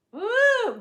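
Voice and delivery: a sudden high loud woo; excited whoop. Real, not acted. Whooping to her viewers out of excitement. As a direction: burst out with a high cheer.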